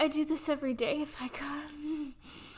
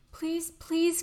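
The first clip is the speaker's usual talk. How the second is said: urgent pleading, louder; loud begging; 3 semitones higher, 6 dB louder than usual. Acted. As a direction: beg out loud, needy. Begging partner to touch her.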